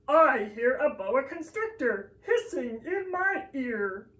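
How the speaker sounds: hissing whisper of a snake. Acted. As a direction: breathe the words out like a hissing snake. Reading the snake page.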